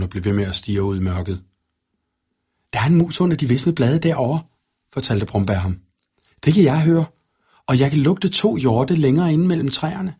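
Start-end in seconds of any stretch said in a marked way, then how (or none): 2.7-4.4 put-on much higher, keen child-like offer; volunteer like a keen little boy; eager young wolf boy. A narrator's reading. Wolf boy offers the knight to keep watch, eagerly. 6.4-10.1 higher, lively and eager; lightly voiced proud wolf boy. A narrator's reading. Wolf boy shows the knight his senses, proudly.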